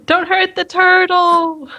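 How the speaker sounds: stretched-out cry on behalf of an animal; drawn-out plea. Acted. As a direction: plead with long, drawn-out words. Player pleads for the turtle.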